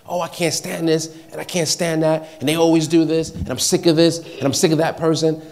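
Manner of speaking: openly voiced, mildly exasperated griping; mock complaining. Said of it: "It's not like complaining, just like".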